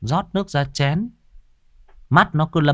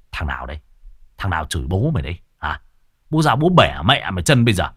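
yelling; 5 semitones lower, faster than usual. Acted. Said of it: "thì đã gào lên".

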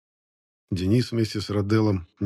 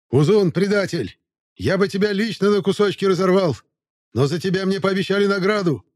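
shrill, piping voice, much higher; high squeaky voice; 11 semitones higher, 4 dB louder than usual. Acted. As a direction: squeak it out like a eunuch. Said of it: "высоким писклявым голосом".

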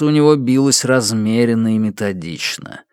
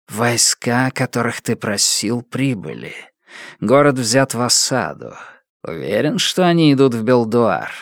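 creeping nightmare whisper. Acted. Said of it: "Едва скрывая раздражение, спросила тень".

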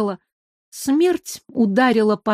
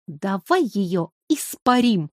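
gleeful roar; 4 dB quieter, slower than usual. A narrator's reading. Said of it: "радостно взревел внутренний огонь".

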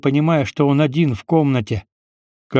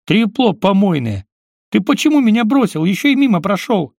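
angry yell; 8 semitones higher than usual. Acted. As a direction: hurl the insult at him. Green yelling at uncle Kolya.

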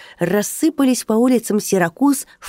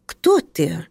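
calm voice masking fear; hiding fear. A narrator's reading. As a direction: keep the fear out of your voice. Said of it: "стараясь не показать испуг". (скрывая испуг, ровным голосом)

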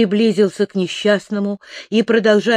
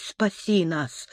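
softer, a frightened whisper; whispered prayer; 7 dB quieter, slower than usual. A narrator's reading. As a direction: breathe it out to God. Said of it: "шептал Аввакум". (испуганный шёпот молитвы)

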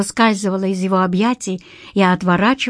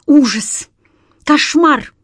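breathed out in panic; 6 semitones higher, 4 dB louder, slower than usual. A narrator's reading. Kiselyov on the phone to the detective, gasping in panic. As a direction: panicky exclamations, rising higher. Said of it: "— выдохнул он".

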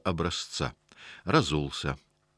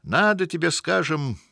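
high, emphatic, venomous sneer; venomous mockery; 7 semitones higher, 4 dB louder than usual. A narrator's reading. African scornfully explains politics to the house spirit, with venomous mockery. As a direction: sneer it out with big swooping stresses. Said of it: "продолжал с ядовитой усмешкой".

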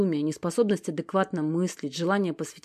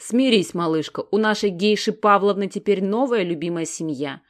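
louder, mock-comforting sneer; snide sympathy; 2 semitones higher, 6 dB louder than usual. Alex mockingly consoles Stezhka, snide. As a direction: fake pity with a sting. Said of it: "ехидно посочувствовала Алекс".

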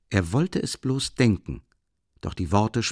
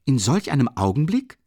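calling out; 6 semitones higher, 5 dB louder than usual. A narrator's reading. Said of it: "rief Rasumichin".

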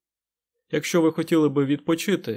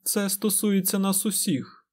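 stern; 7 semitones higher, slower than usual. A narrator's reading. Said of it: "суворо промовила Морейн".

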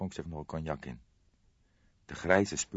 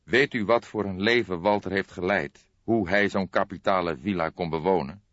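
urgent; 2 semitones higher, 6 dB louder than usual. Acted. Cook presses urgently.

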